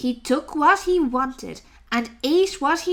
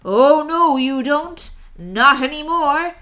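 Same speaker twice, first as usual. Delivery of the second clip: declaring rat; 2 semitones higher, 5 dB louder than usual. Acted. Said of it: "declared the highway thief".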